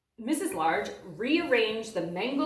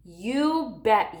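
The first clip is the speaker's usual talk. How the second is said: put-on a touch louder, eager boy; mild yell; 5 dB louder than usual. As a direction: call it out lightly. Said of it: "yelled Lester".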